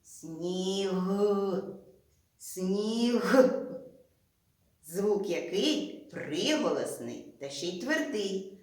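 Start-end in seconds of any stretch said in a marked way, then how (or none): 0.0-3.4 «Сніг» said twice, leaning on the final «г»; teacher isolating the last sound of «Сніг»; stressing a sound. Shown as a demonstration. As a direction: land hard on the end of «Сніг». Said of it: "І останній звук".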